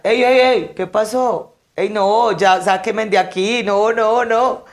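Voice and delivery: high and loud, imitating the son begging to get out; frantic protests from inside the grave, high and loud; panicked yelling.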